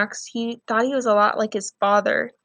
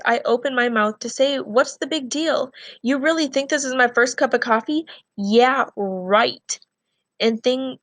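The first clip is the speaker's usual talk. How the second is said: read-aloud of the novel, even and clear; story narration. A narrator's reading. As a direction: carry the class through the scene as a storyteller. Teacher resumes reading the novel.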